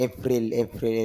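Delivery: এপ্রিল with a clear "pril" ending; এপ্রিল with an "i" in the last syllable; everyday pronunciation. Shown as a demonstration. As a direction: say এপ্রিল as "e-pril", Bangla style. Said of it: "এইভাবে বলি".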